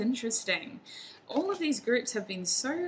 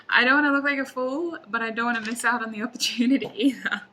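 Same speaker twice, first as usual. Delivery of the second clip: loud, higher-pitched mock dilemma with a laugh; torn, mock anguish; 3 semitones higher, 7 dB louder, faster than usual. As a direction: play up the struggle, half laughing. Voicing the torn querent, amused.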